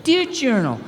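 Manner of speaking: plain Doug voice again. Acted. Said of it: "updated version of Doug".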